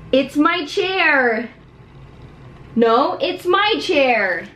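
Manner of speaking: slow, drawn-out whine; possessive whining. Acted. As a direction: drag it out like a sulky child. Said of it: "We act out all of them".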